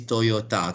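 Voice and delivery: Toyota with full vowels, toh-yo-ta; correct pronunciation. Shown as a demonstration. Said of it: "Okay, correct".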